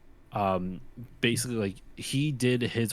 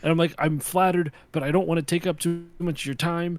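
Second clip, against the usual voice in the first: retold polite protest; 8 semitones higher, 3 dB louder than usual. Retelling own flustered polite refusal.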